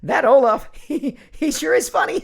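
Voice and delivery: high, loud giggly silly voice; goofy cartoon voice. Goofy voice praising Olaf, laughing.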